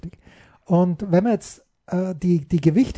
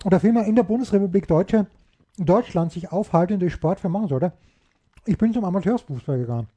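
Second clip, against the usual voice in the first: chewing while talking. Real, not acted. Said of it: "mit vollem Mund zu essen".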